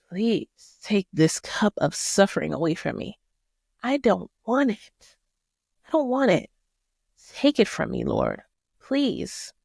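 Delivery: pleading, voice rising on I don't want it; anguished prayer. Acted. Jesus praying to God in the garden, begging in anguish. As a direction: beg God to take the suffering away. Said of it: "his prayer to God".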